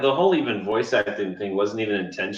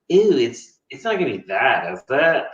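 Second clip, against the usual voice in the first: disapproving mom. Retold or imitated. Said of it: "and she's like".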